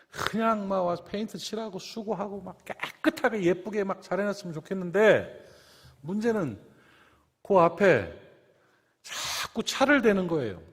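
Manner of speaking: ordinary talk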